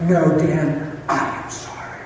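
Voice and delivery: slow down into a hushed, sincere apology; earnest conviction. Retold or imitated. Wife looking at husband, earnest apology dropping to hushed. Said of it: "With conviction, look at me right now".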